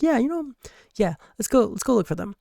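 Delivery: put-on high, eager young hero voice; bright eager teen; high eager boy voice. Jaden cheerfully calls friends along.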